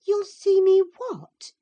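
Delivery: very high, loud shocked question; stunned that a servant would speak so; in surprise. A narrator's reading. Cathy, shocked at Hareton's curse, cries out high. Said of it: "asked Catherine in surprise".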